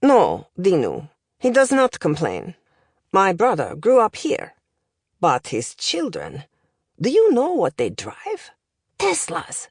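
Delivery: put-on accented professor, deliberate, then pitch leaping up; indignant language professor. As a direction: build to scandalised disbelief as the accented tutor. Professor indignant about his brother.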